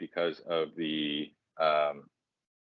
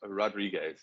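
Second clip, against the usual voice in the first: slow, high-pitched mock Spanish accent; botched Spanish accent; 6 semitones higher, 3 dB louder, slower than usual. Host retrying the full track name for his co-host, mock Spanish accent.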